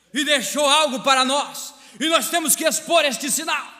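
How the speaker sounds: high, loud, impassioned pulpit delivery; fervent shouted sermon, pitched high; full-force preaching. Real, not acted. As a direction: preach it hard to the whole congregation.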